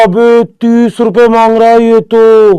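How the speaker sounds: astonished exclamation at a petty demand; stunned disbelief. Retold or imitated. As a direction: drag it out like you can't believe your ears. Friend asks thirty rupees back.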